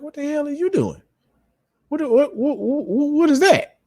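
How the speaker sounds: high, stunned what-the-hell; retold outburst, climbing high in shock; shocked disbelief. Dad catching his daughter's revenge, shocked and high.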